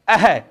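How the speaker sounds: अह said as a breathy a-ha echo; demonstrating the visarga sound; visarga sound demo. Shown as a demonstration. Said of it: "ध्वनि किसकी आ रही है last में".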